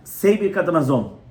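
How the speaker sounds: put-on a no-nonsense instruction to a child; firm command. Shown as a demonstration. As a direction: say it firm and final. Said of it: "You have to say it firm".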